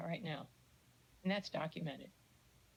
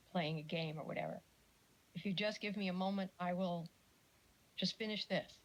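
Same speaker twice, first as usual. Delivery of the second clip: gentle reassurance. Shown as a demonstration. Parent to a child asking for attention, gently reassuring. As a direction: tell the child kindly to wait a moment. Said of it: "then you say".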